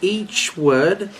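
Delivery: put-on very slow, overly articulated South African accent, laughing through it; mock South African, each word said as it is; laughing South African impression, slowly spelling out each word. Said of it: "we could speak like this".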